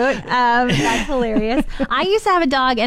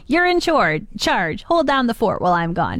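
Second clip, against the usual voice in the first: plain, matter-of-fact instruction; human voice; 2 semitones higher than usual. Retold or imitated. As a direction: tell the dog like a person would. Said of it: "a human voice".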